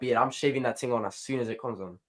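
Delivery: London street slang accent. Real, not acted. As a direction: talk like a Londoner. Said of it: "Why are you talking like a Londoner?".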